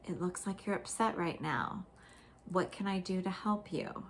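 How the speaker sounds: put-on calm parent soothing an upset child. Shown as a demonstration. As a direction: settle the child gently, no edge. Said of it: "come in with a calm voice".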